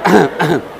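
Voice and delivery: high giggly remark; high amused laughing comment. Real, not acted. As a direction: laugh through the line. Laughing at the odd posture.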